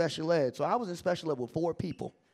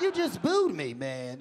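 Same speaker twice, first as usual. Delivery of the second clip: indignant protest; 5 semitones lower, slower than usual. Retold or imitated. Protests the sudden praise after booing.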